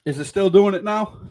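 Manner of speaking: glitchy robotic call audio; choppy, buzzy connection. Real, not acted. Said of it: "it sounds like a robot".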